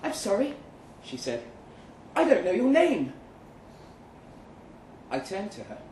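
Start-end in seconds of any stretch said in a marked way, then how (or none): 0.0-0.5 higher, lightly voiced woman; a gentle apology in her voice; Kate, apologetic. A narrator's reading. 2.1-3.1 higher, louder woman's voice; raised woman's voice, puzzled; Kate, puzzled. A narrator's reading. Kate speaks.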